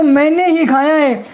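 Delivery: मैंने ही grouped, ही picked out; stress on ही. Shown as a demonstration. Teacher explains the misheard meaning to students, stressing ही. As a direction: lean on ही as a confession. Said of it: "अगर ही के बाद".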